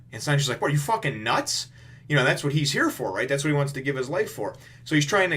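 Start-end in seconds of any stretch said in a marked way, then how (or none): 0.6-1.7 higher, louder mock outrage; disbelieving shout at a reckless friend; incredulous anger. Sanji yelling at Luffy, incredulous mock shout.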